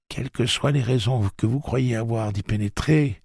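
put-on high, grave old woman warning. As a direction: warn them with solemn weight.

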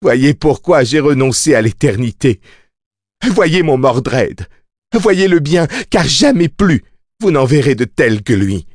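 high, exalted mad boast; crazed yelling. A narrator's reading. Mia orders them all to behold Mordred, yelling madly. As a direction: proclaim it high and fierce, like an order. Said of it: "leur hurla-t-elle, leur cracha-t-elle au visage".

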